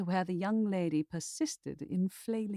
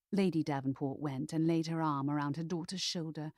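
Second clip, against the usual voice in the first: ordinary delivery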